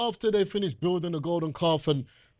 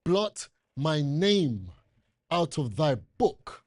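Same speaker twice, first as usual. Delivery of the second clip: Moses pleading; slower than usual. Retold or imitated. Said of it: "listen carefully".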